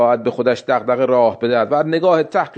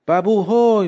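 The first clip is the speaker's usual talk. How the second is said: a higher call across the yard; 6 semitones higher than usual. Acted. Old woman calls her son from the doorway, calling out. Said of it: "داد زد".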